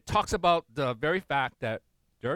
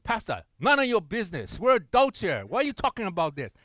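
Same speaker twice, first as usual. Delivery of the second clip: louder, indignant retort; imitated anger; 4 semitones higher, 5 dB louder than usual. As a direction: bristle back at the pastor. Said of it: "sometimes they respond in anger".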